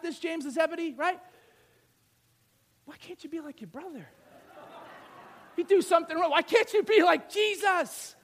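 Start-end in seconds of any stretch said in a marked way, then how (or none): 2.8-4.1 very soft, quick mock scolding; parent's complaint under the breath; hushed, acted-out nagging; muted parental reproach. Acts parent scolding younger sibling. 5.6-8.2 acted-out parental outburst; exasperated parent. Acts parent scolding after wrongdoing.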